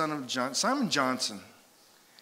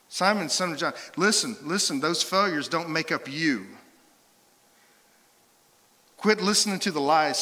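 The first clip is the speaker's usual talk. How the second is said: raised, emphatic pleading; urgent insistence; 3 semitones higher, 4 dB louder than usual. Acted. Jesus to Peter about his failures, urgent. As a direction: press each point home, growing louder.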